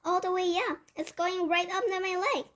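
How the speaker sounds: high, alarmed running report; yelling. A narrator's reading. Cook tells others the mouse is climbing, yelling. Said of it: "the man was yelling".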